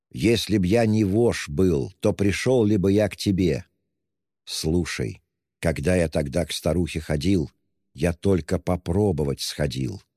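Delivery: ordinary delivery, nothing marked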